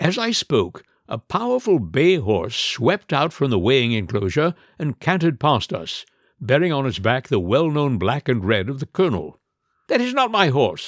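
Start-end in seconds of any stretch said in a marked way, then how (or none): 9.9-10.9 high exclaiming cry, called out aloud. The owner, watching a bay horse canter past, speaks to Mr. Holmes: cried out. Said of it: "cried the owner".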